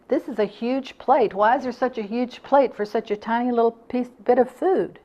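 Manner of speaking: mock-grumble at the oversized plate; irritable complaint. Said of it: "I was really irritable".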